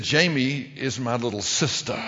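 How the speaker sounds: slow, deliberate mock menace; imitating a protective big brother; slow warning. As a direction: spell it out slowly to intimidate. Giant friend warns the boy slowly.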